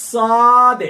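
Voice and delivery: সাদ said thick and heavy; heavy sad. Shown as a demonstration. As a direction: give সাদ a full heavy sound. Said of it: "একটু মোটা করতে হবে". (ভারী মোটা উচ্চারণে সাদ)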